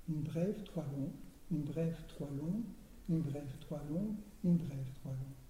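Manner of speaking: rhythmic chant of short and long beats; softly chanted metre pattern, beat by beat; scanning the metre. Shown as a demonstration. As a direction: tap out the metre steadily, one brève then three longs. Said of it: "vous avez comme rime".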